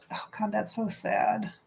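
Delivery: hushed whisper of sorrow; whispered heartbreak; sad whisper. Real, not acted. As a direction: breathe it out, moved. Reacting to sad quote.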